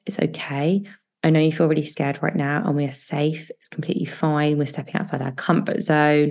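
soothing your own frightened younger self; reassuring. Shown as a demonstration. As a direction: talk yourself down kindly, like comforting a child. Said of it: "Really reassuring yourself".

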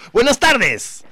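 high, loud announcer hello; mock radio greeting. Host greeting listeners on air, loud and high. Reminding they're live on air.

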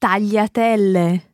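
"Tagliatelle" as a native Italian says it; Italian pronunciation demo. Shown as a demonstration. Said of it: "how Francesca pronounces this one".

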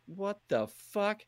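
high breathy stunned gasp, slowed; stunned by an ambush, drawn out; shocked. Retold or imitated. Gamer ambushed by two guys, stunned high disbelief.

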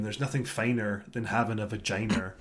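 lyric recited deadpan as spoken word. Retold or imitated. Reading out the lyric he hated to his co-host, deadpan. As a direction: say the lyric with no singing, straight. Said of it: "spoken word with a steadpan".

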